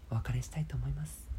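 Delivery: gentle high sign-off voice; soft high farewell. Shown as a demonstration. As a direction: float it up and softly. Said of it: "綺麗な高い声で".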